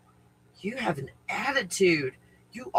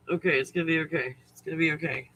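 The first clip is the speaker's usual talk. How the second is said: self-reassurance; 2 semitones lower, 4 dB quieter, much faster than usual. Real, not acted. Calming self after chaos.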